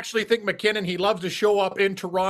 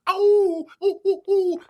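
much higher, louder excited oohs; excited hooting; 13 semitones higher, 4 dB louder, much slower than usual. Real, not acted. Co-host cheers the T-Wolves pick with excited high hoots. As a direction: hoot like a fan cheering his team on.

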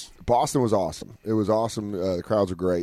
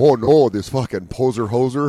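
mock Canadian crowd; 6 dB louder than usual. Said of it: "everyone's like".

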